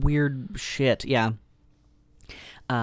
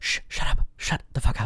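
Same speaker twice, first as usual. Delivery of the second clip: urgent whispered hush; shushing whisper; 2 semitones lower than usual. Retold or imitated. Friends hushing Claire in the street, whispered. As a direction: hiss at her to shut up. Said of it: "and they're like".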